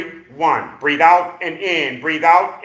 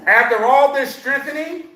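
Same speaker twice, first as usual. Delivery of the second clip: raised pitch, counting out like a drill; barking coach; 6 semitones higher than usual. Real, not acted. Coach promises a client results from her barking, raised voice. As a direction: push the count out high and firm. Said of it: "and me barking".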